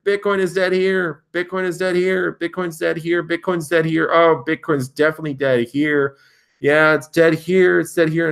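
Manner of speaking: mocking doomsayers. Vlogger mocking the Bitcoin-is-dead writers, sarcastic mock panic. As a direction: parody every headline declaring Bitcoin dead.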